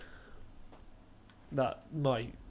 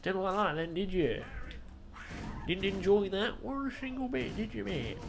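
taunting; 7 semitones higher than usual. Real, not acted. Taunting enemy in game.

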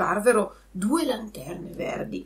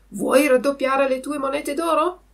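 higher, louder tempting question; fox; 6 semitones higher, 6 dB louder than usual. Acted. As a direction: dangle the offer like a sly fox. (volpe che tenta il burattino)

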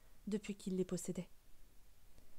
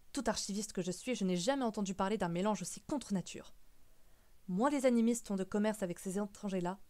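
emphatic, mildly outraged objection; insistent, building in force to the end; indignant great-uncle. Acted. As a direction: lay down the law, ending on a firm full stop. Great-uncle lays down the law.

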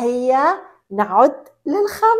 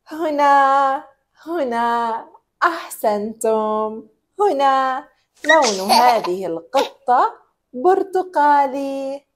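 put-on reading to a toddler. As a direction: talk gently to a toddler. Talking to a toddler.

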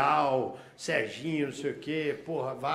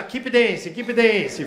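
higher, louder "Keep dance"; guard steering the dancer away; mock foreign guard; 4 semitones higher, 8 dB louder, much slower than usual. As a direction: herd him along in broken English. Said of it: "Aí ele já".

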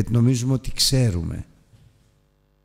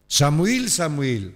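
calling out; 4 semitones higher, much slower than usual. Acted. God calling the boy.

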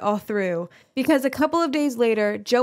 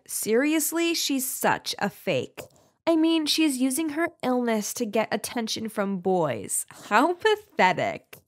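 put-on scornful mean girl. Girl calling a sick classmate fake, scornful. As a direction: pour on the schoolgirl contempt. Second girl sneers at the narrator.

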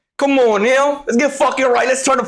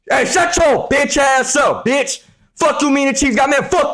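angry yell; 3 semitones higher than usual. Real, not acted. Yelling at chat over Chiefs.

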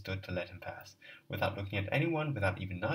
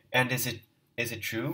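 trembling with anger; 3 semitones higher, 5 dB louder than usual. Acted. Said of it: "his voice trembling with anger".

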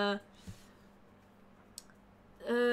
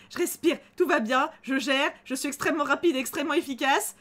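normal talking voice

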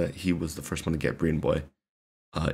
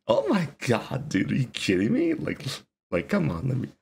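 imitating Schwabi; 7 semitones higher than usual. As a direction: tease like a grinning rapper. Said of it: "I can see the smile on Schwabi's face when he talks this shit".

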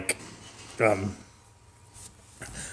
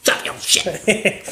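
put-on much higher, nagging kid; bratty kid; 9 semitones higher, slower than usual. Twin boys pestering their dad, bratty high voice.

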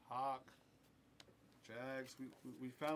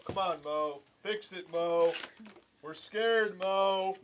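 calling out; 2 semitones higher, 7 dB louder, slower than usual. Real, not acted. Calling out to Mo to fix it.

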